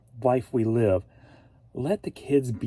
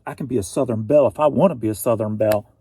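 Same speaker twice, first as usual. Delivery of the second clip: sassy; 3 semitones lower, 5 dB louder, faster than usual. Pretend. Sassy declaration about being a belle.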